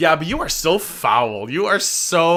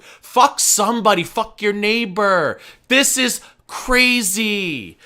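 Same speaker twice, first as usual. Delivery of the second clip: exasperated slow rant; 2 semitones higher, slower than usual. Real, not acted. Ranting at obsessed fans.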